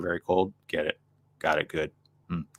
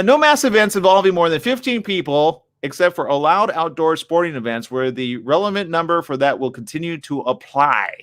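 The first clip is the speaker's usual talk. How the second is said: reading aloud; 6 semitones higher, 3 dB louder than usual. Real, not acted. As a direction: read the article out, slightly raised voice.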